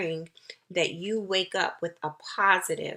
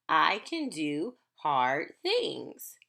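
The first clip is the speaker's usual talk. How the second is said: affirmation modeled; 5 semitones lower, slower than usual. Shown as a demonstration. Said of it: "affirmation can be just what the title".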